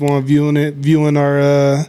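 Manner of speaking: stumbling over the words; tripping on the words; tongue-tied. Real, not acted. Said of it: "I'm tongue-tied right now".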